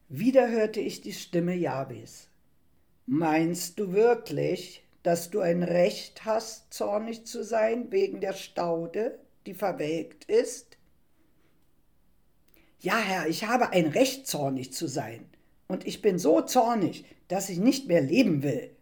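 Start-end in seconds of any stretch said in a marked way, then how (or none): 3.1-10.8 langsame, eindringliche Frage; eindringliches Nachfragen. Acted. Gott stellt Jona zur Rede. 12.8-18.8 verhalten wütende Widerrede, betont; wütend. Acted. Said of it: "zischte ich wütend".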